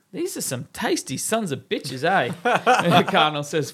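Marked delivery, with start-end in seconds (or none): 0.1-2.3 priest voice. Acted. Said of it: "The priest says".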